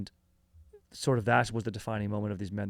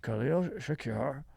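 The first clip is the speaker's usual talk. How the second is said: hammed-up dealmaker voice; 3 semitones higher than usual. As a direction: lean in like a shady oilman closing a deal. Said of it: "I would always talk like this".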